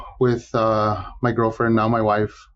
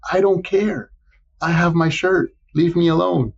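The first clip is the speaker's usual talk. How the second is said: mock stubborn brush-off; 7 semitones higher than usual. Brushing off girlfriend's business talk.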